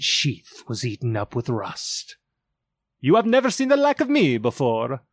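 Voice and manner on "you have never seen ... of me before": high, fast, otherworldly spirit voice; echoing ethereal energy being. A narrator's reading. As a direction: proclaim it like a towering jolly ghost. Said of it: "exclaimed the spirit".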